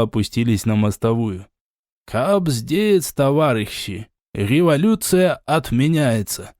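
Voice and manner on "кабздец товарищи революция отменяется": картавый голос вождя, «Революция» с грассирующим «р»; Lenin-style burr, rolling «р» in «Революция» swallowed. Retold or imitated. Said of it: "Картавым голосом изобразил я вождя пролетариата". (картавый голос, как у вождя пролетариата)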